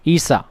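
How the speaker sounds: "ईसा" with a short, unstretched final aa; crisp short ending on "ईसा"; short final vowel. Shown as a demonstration. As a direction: say "ईसा" without dragging out the end. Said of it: "मकसूरा वाले को छोटा पढ़ते हैं".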